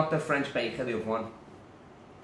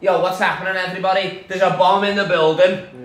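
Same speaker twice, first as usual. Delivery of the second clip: acted stage announcement; 5 dB louder than usual. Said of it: "I'm up there, I grab it off him".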